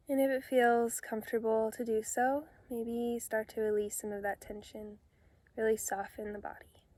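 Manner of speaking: calm meditation guide with long pauses between phrases; unhurried, soothing instructions, phrase by phrase; guided meditation. Real, not acted. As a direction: gently lead them into relaxation, leaving space to breathe.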